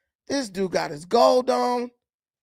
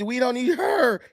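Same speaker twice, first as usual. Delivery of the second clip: mock Southern accent; 3 semitones higher than usual. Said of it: "that's not no damn Southern accent".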